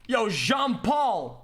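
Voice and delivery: slow, drawn-out name call; yelling his name. Pretend. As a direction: call the name out with swooping pitch. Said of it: "Make sure you're yelling".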